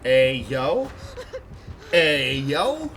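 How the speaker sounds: man doing a woman's voice, loud; Rude Girl impression. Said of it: "That's my Rude Girl impression".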